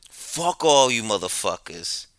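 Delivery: angry beggar. Retold or imitated. Subway rider retelling a beggar's outburst, mock angry rant. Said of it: "And he goes".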